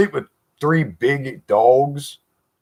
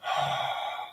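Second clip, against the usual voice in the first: imitated slow breathing; 13 dB quieter than usual. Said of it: "a slow, light breathing".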